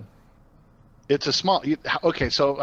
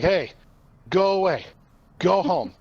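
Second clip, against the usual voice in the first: yelling; 5 semitones higher, 3 dB louder than usual. Pretend. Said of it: "just kinda yell at it".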